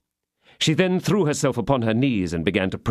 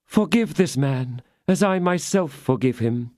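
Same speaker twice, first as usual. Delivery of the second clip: forgive him like a martyr; angelic sweetness; 6 semitones higher than usual. Acted. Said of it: "angelic sweetness of gesture and of intonation".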